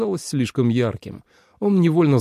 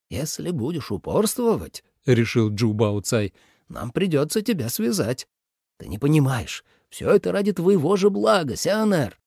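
stern father; 3 semitones higher than usual. A narrator's reading. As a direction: threaten gently but firmly. Father threatens to tie son. (строгий отец, тише)

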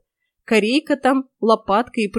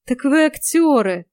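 higher, louder, slow relief; relieved exclamation; 5 semitones higher, 5 dB louder, slower than usual. Acted. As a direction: breathe out the relief. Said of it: "Облегчение, сквозившее в каждом звуке". (облегчённое восклицание)

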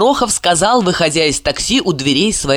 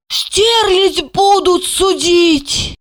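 slow, high moaning exclaim; moaning gasp; 12 semitones higher, much slower than usual. Acted. Asya, hand over mouth, moaning slowly. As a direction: moan it out in shock. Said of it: "она простонала".

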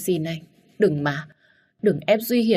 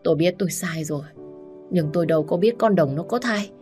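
wailing confession; 3 semitones higher than usual. Acted. Wife confesses to her husband while wailing. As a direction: stammer through tears. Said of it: "vừa gào khóc".

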